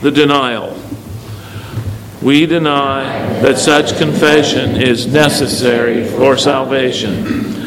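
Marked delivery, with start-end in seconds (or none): 2.2-7.6 measured congregational recitation; evenly phrased creed reading; reciting together. Real, not acted. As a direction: lead the room in reciting a formal denial. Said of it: "Please recite with me".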